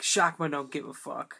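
laughing. Real, not acted. Reading own joke note, laughing.

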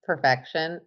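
slow, drawn-out emphasis; slow emphatic gush. Real, not acted. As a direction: savor each word slowly. Gushing about perfect weather.

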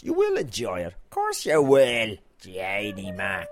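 loud mock insistence, stretching the last words. Host jokily assures listeners they will enjoy it, mock insistence. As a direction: insist in a drawn-out, hammed-up way.

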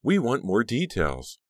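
high, drawn-out insistent demand; pushy, stretched-out chant-like demand. A narrator's reading. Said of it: "Trish demanded".

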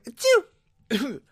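high, light mock achoo; a small polite sneeze; mocking ordinary sneezes; dainty sneeze. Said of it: "most sneezes are like".

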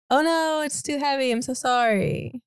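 fake apologetic struggle. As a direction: pretend the chair is too heavy. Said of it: "it's just gonna be like".

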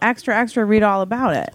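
sing-song newsboy call; newsboy cry. Acted. Colleague mimics a newsboy calling headlines. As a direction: hawk it like a paperboy.

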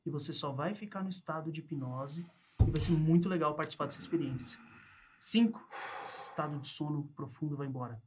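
calm, measured hypnosis countdown. Acted. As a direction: lull them under with each number. Bringing subject out of hypnosis. (voz lenta de hipnotizador)

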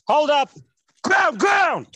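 sharp high shouted cop orders; barking police commands. Acted. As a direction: yell it like a cop ordering a suspect down. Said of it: "my best American police officer impression".

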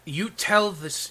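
slow, deliberate warning; drawn-out start. Acted. Big guy starts his warning to Gideon, slow and deliberate. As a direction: lean on each word slowly. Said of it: "he goes".

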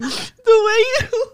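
giggling through the words; can't stop giggling, hungover; hungover giggles. Real, not acted. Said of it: "hungover giggles".

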